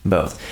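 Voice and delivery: "Both" with no L, straight from vowel to th; BOTH without L. Shown as a demonstration. Host repeating the corrected word, "Both" with no L. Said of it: "There you go".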